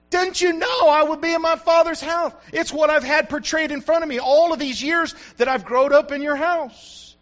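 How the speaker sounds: Jesus amazed his parents didn't see it; astonished Jesus. Acted. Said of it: "Jesus was just kind of amazed".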